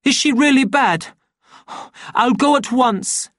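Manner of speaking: alarmed phone voice. A narrator's reading. Savage hearing on the phone that she is ill, high mounting alarm. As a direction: build from answering to shocked dismay.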